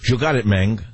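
Spanish-accented catchphrase. Shown as a demonstration. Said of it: "practicing my Spanish accent".

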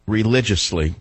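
"religiously" set apart after a pause; stress on religiously. Real, not acted. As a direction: lean on the word "religiously". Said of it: "I emphasize the word religiously".

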